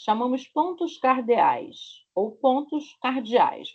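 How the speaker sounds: slow Rio de Janeiro pronunciation of "pontos cardeais"; Carioca accent demo. Shown as a demonstration. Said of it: "como eu falo no meu sotaque carioca".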